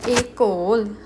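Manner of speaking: École said alone as ay-kol; careful École with a clear opening ay; French word modelled. Shown as a demonstration. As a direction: model École firmly for learners. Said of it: "How we going to pronounce".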